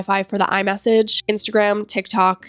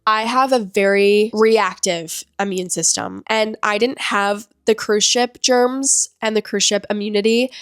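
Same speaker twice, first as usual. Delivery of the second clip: stuffy nose, congested voice; blocked nose. Real, not acted. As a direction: talk through a blocked nose. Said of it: "me saying this as I'm, like, so stuffy".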